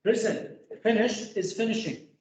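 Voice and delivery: finishing said high and clearly marked; stress on finishing. Shown as a demonstration. Teacher correcting a student's verb form, stressing finishing. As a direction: point out finishing with a lifted pitch. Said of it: "teacher stresses the correct verb form".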